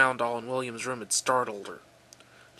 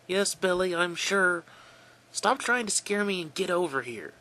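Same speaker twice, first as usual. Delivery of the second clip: near yell; 7 semitones higher, 3 dB louder than usual. Acted. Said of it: "She nearly yelled into the phone".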